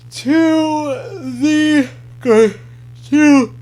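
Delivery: stuttering on the words. Real, not acted. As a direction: get stuck repeating the words. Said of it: "sorry about that little stutter".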